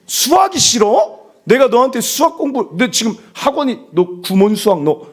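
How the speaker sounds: high, indignant mock parental outburst; scolding parent. Acted scolding parent about maths. (부모가 높은 목소리로 다그치듯)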